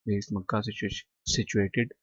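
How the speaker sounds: very slow, each English word set apart for students; slow dictation reading. Shown as a demonstration. Teacher to students, slow careful reading aloud. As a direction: read Arabia is a land of charm and beauty slowly for the class. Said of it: "teacher reads the question slowly".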